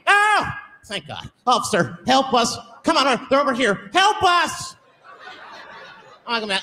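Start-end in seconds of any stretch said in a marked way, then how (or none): 0.1-4.8 panicked plea. Acted. Panicked stranger begging cop.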